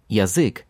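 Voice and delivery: язык starting with a clear, full ya; язык: strong Ya at the start; full initial Ya. Shown as a demonstration. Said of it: "it's the full Ya at the beginning again".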